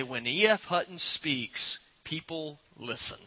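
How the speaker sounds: a light hint of a hushed, slow commercial narrator. Pastor recalling an old commercial, softly hushed narrator tone. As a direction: lean in slowly like the old ad voice. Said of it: "the narrator would come on and say".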